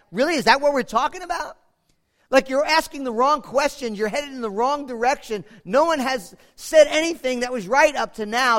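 high, quick and incredulous; mock-incredulous youth; David's indignant retort. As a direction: fire it back like an impatient young David. Preacher voices David's retort.

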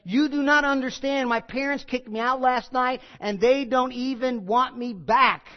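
high, loud, bitter outburst, slowing at the end; raging retort. Retold or imitated. Blindfolded girl raging at the teens who quote Scripture, furious shout. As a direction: hurl it back, enraged and hurt. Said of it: "Then in a rage".

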